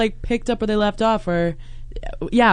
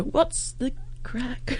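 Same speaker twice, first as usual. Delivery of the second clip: put-on slow, softer stab at an Irish accent; attempted Irish accent; 4 semitones higher, 11 dB quieter, much slower than usual. Guessing what locals say in Ireland, terrible attempted Irish accent. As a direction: try a bad Irish accent, drawn out. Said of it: "Was that an attempt at an accent?".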